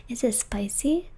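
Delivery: whispering. Real, not acted. Whispering ASMR stream.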